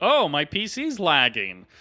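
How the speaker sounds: sarcastic jab.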